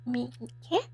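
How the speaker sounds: "Me, yeah." as merde, broken by a throaty R; hairball French R. Shown as a demonstration. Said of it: "trying to hack up a hairball".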